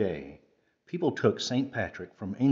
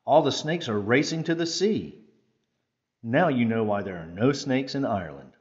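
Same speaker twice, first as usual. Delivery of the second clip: triumphant Saint Patrick; 3 dB louder than usual. Acted. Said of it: "said Nicholas".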